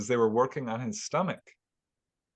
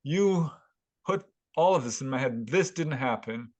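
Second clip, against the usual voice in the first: mildly acted angry accusation; imitated indignation, understated; livid retelling; 2 semitones higher than usual. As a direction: retell his outrage with a firm push. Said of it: "he was livid with anger".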